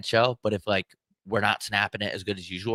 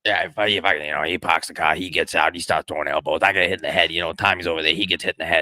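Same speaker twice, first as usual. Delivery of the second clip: Boston tough guy; 6 semitones lower than usual. Acted. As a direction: lower Boston accent, a cursing bar-fight story. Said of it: "that's Boston".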